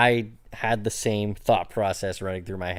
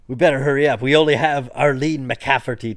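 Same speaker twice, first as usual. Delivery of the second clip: loud, gruff pirate voice; 3 semitones higher, 6 dB louder than usual. Acted. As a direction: growl it like a pirate. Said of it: "like, a pirate voice".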